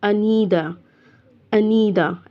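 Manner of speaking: अनीदा ending on open "daa", no n. Shown as a demonstration. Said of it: "ऐसे पढ़ना है आपने".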